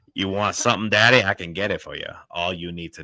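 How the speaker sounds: loud, sly, heavy Southern accent. Describing how a sly Southern demon offering a deal sounds: Dusty Rhodes style. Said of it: "a sly Southern demon that's gonna make".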